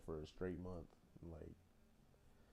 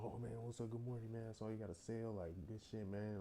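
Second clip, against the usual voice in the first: higher, breezy mock-cheerful greeting; fake friendly boss; 4 semitones higher than usual. Mocking the manager's sudden switch to friendly, higher mock-cheer. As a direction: imitate a two-faced boss sucking up.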